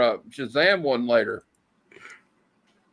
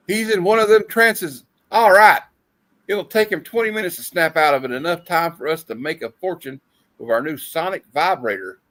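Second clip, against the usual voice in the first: comic villain voice; 3 semitones higher, 4 dB louder than usual. Acted. Reading villain comic dialogue aloud.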